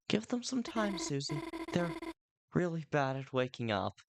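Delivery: high, light and fast; covering for a sleepy friend; teasing friend. Acted. Friend defending Chris to Susie, light and teasing.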